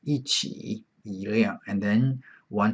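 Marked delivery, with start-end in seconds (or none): 0.0-0.8 soft, higher 一起 with 一 in fourth tone. Shown as a demonstration. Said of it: "you always pronounce fourth tone". 1.0-1.6 一辆 with 一 rising in second tone. Shown as a demonstration. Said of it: "you change to second tone".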